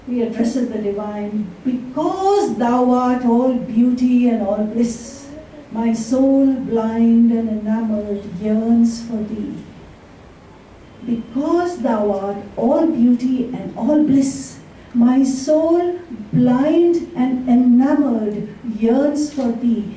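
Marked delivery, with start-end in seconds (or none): 1.6-9.6 slow, devout sonnet reading; poem recital. Acted. Speaker recites a sonnet addressed to the divine, slow and reverent. 11.1-19.9 even slower, lingering sonnet reading; poem recital. Acted. Repeating the sonnet's opening lines to the audience, slow and savouring.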